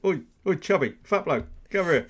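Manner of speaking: high, loud, laughing call across the floor; mock boss calling. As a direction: holler it like a rude foreman. Acting boss calling worker.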